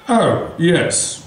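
low, slow throwaway; offhand villain line. Retold or imitated. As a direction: toss it off as an afterthought. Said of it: "as an afterthought, he goes".

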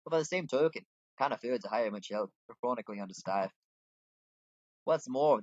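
put-upon tavern keeper, lightly acted; lightly voiced innkeeper. Innkeeper asking helper to serve customers, lightly voiced. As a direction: explain the job in a light character voice.

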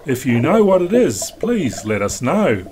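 even, measured documentary read; calm voiceover read to the viewers; vlog voiceover. Acted. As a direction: narrate the passage like a sailing film.

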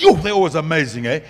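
high, loud gushing rave; mock excitement. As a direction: imitate the crowd gushing over the guest preacher. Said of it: "everybody goes".

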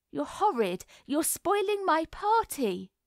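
put-on upset child, voice lifting high; tearful whimper. A narrator's reading. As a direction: complain on the edge of tears. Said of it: "whimpered Violet, beginning to cry".

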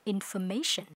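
Information with a light schwa and a heavy "shən" ending; schwa and shun ending. Shown as a demonstration. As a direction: land the "shən" at the end of Information. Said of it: "âm ơ và âm sần nặng".

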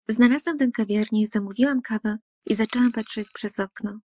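usual speaking voice

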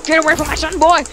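put-on a gruff Scottish dad chasing a boy off; Scottish accent. Father threatens the babysitter in a light Scottish accent. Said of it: "friggin' Scottish accent, mate".

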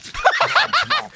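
very high-pitched laugh; burst of laughter. Real, not acted. Viewer watching Pooh nearly eat her, high laughter. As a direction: crack up, pitch shooting up.

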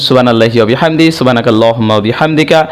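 low, quick Arabic dua; closing prayer recitation. Acted. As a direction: murmur through the familiar closing prayer.

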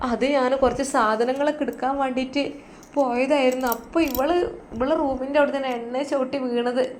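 put-on high, aggrieved old woman blaming the girl; whining old mother. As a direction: tell on her with a whine. Mother blaming daughter-in-law to doctor.

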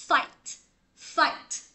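"fight" closed on a released t; careful "fight", crisp t at the end; final t in "fight". Shown as a demonstration. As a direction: model "fight" with its t ending sounded. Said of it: "Còn quýnh lộn á".

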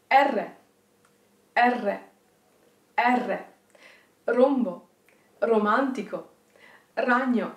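R, Rombo, Romantico, Ragno with trilled r; rolled r exercise. Shown as a demonstration. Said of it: "Let's try together".

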